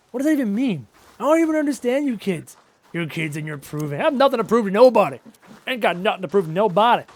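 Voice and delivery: a hint of a cranky old-timer; grumpy old man. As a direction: grumble like an old man at kids.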